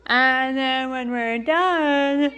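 broken up by hiccups; slow, interrupted by a hiccup. Real, not acted. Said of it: "excuse me, sorry".

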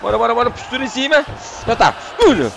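high, loud and fast; rally him on hard; fast loud bora bora bora; urgent shout. Real, not acted. Urging fighter on.

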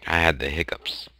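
breathy unvoiced whisper. Real, not acted. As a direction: whisper it aside. Whispered remark.

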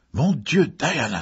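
loud, high burst of admiration; amazed cry. A narrator's reading. Haydn leaps toward the costumed Diana, amazed cry. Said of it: "s'écria-t-il".

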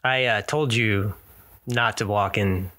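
low, slow in-character reproach; deadpan scolding. Acted. Game character to man hanging upside down, deadpan scolding. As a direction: tell him off slowly and low.

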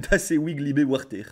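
untrained German, slowly sounded out; clumsy German accent. Acted. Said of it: "L'accent allemand, par contre, y a rien". (accent allemand approximatif)

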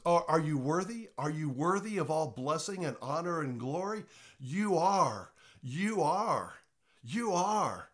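personal address. Shown as a demonstration. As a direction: sing it straight to God. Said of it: "You personalize it".

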